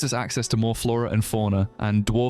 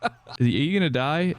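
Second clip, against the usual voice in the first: laugh, then a higher amused question; 4 semitones higher than usual. Real, not acted. Player asks the drowning mayor, laughing. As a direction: giggle into the question.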